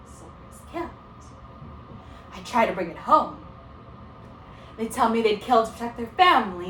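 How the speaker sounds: thoughtful teacher, restrained and weighty; exasperated teacher. Acted. Teacher's monologue in the play.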